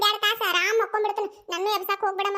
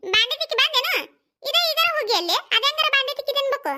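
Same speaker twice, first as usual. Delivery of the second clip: old mother-in-law mocks the daughter-in-law, in a higher jeering voice; taunting mother-in-law; 5 semitones higher than usual. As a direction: needle her like a sharp-tongued mother-in-law.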